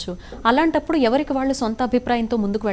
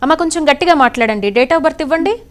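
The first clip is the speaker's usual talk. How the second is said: loud; 5 semitones higher, 6 dB louder than usual. Real, not acted. Asking a faint caller to speak.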